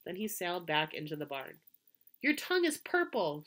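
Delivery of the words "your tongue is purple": put-on a child's playful scream, high and louder; high mock scream. A narrator's reading. Fern to her brother on the swing, a high playful scream. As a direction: shriek it across the barn like a teasing girl. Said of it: "screamed Fern".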